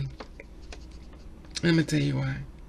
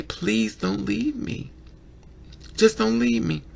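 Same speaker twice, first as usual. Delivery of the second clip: tearful pleading; 5 semitones higher, 4 dB quieter than usual. Retold or imitated. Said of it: "And you cry".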